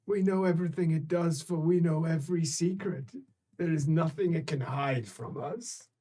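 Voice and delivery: a lightly voiced sly being; secretive creature voice. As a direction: speak as an ancient knowing creature. Creature speaks to players.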